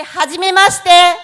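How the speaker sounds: Hajimemashite spoken loud and distinct for the class to copy; careful Japanese demo. Shown as a demonstration.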